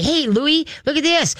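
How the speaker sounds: very high, sing-out call to a puppy; girly baby talk. Shown as a demonstration. Trainer models owner showing Louie a visitor, girly baby talk. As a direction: get the dog's attention in a high happy voice. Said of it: "girly baby talk voice".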